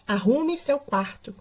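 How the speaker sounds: slow, measured example order; mild classroom demo of an order; tone of command. Shown as a demonstration. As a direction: give it as a deliberate command. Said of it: "tom aí de ordem".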